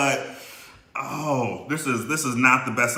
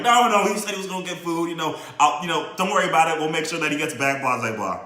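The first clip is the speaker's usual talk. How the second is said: high, loud, hurried pleading; frantic reassurance; 5 semitones higher, 3 dB louder than usual. Retold or imitated. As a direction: talk her down fast, voice up high. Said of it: "I'm doing my best to, like".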